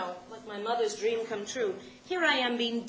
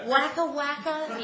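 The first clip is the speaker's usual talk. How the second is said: incredulous repeat; 3 semitones higher, 3 dB louder, much slower than usual. Acted. Checks the direction again.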